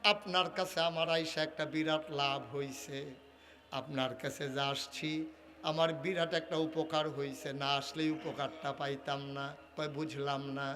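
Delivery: low, lilting chant as the grateful beggar; subdued sing-song preaching; melodic sermon storytelling. Acted. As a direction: intone it low, drawing out the last word.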